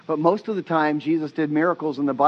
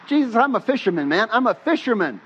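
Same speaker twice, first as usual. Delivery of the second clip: higher-pitched pleading objection; exasperated protest; 5 semitones higher, faster than usual. Retold or imitated. Peter arguing with Jesus, exasperated. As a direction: push back as the offended expert, acted out.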